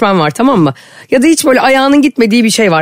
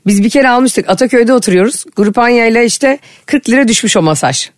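ordinary delivery

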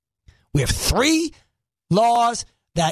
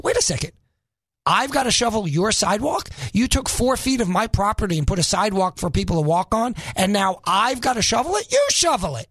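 mock-outraged homeowner; indignant; 2 semitones higher than usual. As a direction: protest in disbelief, then throw it back. Acts out indignant homeowner answering city.

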